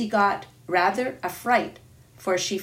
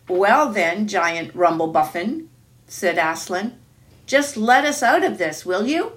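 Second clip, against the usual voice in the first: calling up loudly; 5 dB louder than usual. Acted. Aslan calls up to giant.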